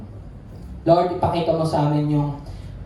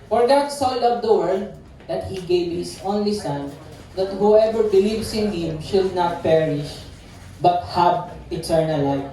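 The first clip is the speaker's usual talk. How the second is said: scripture reading; slower than usual. Acted. Reads famous Bible verse aloud.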